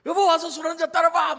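put-on high, loud drunken shout at the wife; imitating a drama's drunk husband calling for food. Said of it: "그러면서 막 이제 막 그런 거죠".

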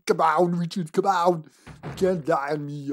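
hammed-up Arnold begging his partner to get up. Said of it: "Imagine Arnold doing".

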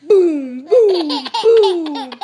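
loud booming boom; thunder boom. Acted. Reading to a child, booming like thunder. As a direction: roll it out like thunder. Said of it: "Mister Brown makes thunder".

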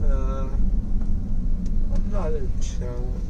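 slurred, drowsy words; groggy from anesthesia. Real, not acted. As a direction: talk through gauze, dazed. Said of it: "knives in my mouth".

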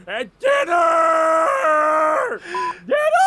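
loud high yell; shouting. Acted. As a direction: bellow the word out. Shouted punchline.

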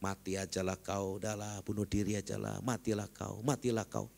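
a hint of a sly tempter; satan's voice. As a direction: coax like the devil murmuring in the ear. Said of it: "Tapi setan bicara di sini nih".

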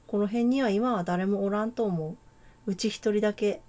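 put-on a light, amateur Kansai accent; casual Kansai-dialect girl, lightly voiced. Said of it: "関西弁風に喋るか。". (軽めの関西弁)

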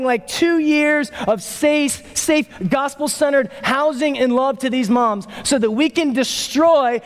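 high-pitched, driving sermon delivery; impassioned preaching. Real, not acted. Preacher telling congregation what joy is for, impassioned. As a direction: preach it with urgency, punching key nouns.

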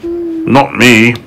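a touch of cheerful boasting; lightly voiced happy storybook creature; happy cry. A narrator's reading. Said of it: "cried the centipede happily".

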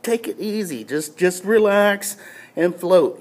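slow, gently reassuring quote; calming inner voice. Retold or imitated. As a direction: coax a panicked swimmer to relax. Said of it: "I hear this voice just".

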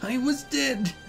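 ordinary delivery, nothing marked

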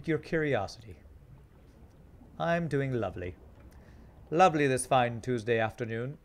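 strange, put-on British accent; lightly hammed-up attempt at a British accent; wannabe British accent. Streamer greeting a passing chat viewer, in a wannabe British accent. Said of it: "wannabe British accent".

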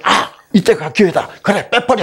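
high, emphatic acted outburst; seizing the chance. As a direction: pounce on the opportunity. Father seizes his chance, acted thought.

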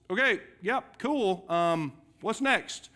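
breezy, dismissive okay-yep-cool; half-hearted listener eager to move on; mock brush-off. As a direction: play the listener hurrying past the command. Acted bored listener brushing off.

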